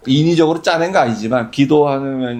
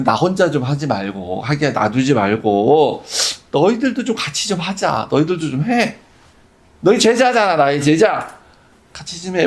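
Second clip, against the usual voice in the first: lightly voiced begging; pleading with disciples. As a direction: ask the disciples to pray with him, mildly. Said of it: "제자들한테 애걸하는 것 같은".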